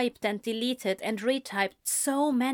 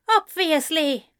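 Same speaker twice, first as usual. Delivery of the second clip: higher, louder bitter echo; glaring echo; 7 semitones higher, 5 dB louder than usual. A narrator's reading. Ezra echoing Anthony bitterly, higher. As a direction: throw the same word back. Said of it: "Ezra glared".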